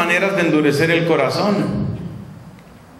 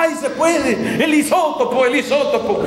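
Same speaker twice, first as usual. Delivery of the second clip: imagined excitement; 9 semitones higher than usual. Pretend. The listeners he hoped for, mock thrilled: high excited cry. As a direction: pretend to jump out of the chair with joy. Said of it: "saltar en la silla".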